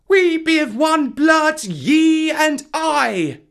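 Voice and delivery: very high, loud, drawn-out jungle call; high boy voice putting on bear speech; bear accent. A narrator's reading. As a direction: chant it out slowly like a creature's call. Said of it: "giving the words the bear accent".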